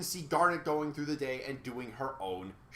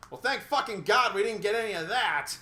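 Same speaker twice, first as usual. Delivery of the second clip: sarcastic thanks; 3 semitones higher, 4 dB louder than usual. Real, not acted. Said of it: "sarcastic relief".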